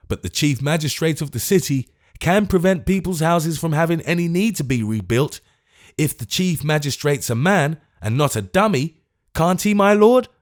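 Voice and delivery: high, rising angry retort; hot-tempered old man demanding; old gentleman berating the Lord Mayor, choleric. Acted. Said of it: "in a choleric manner".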